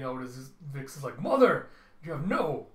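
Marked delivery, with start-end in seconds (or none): 1.2-1.7 shout. Acted. Villain cries out in fury. 2.0-2.7 shout. Acted. Villain cries out in fury.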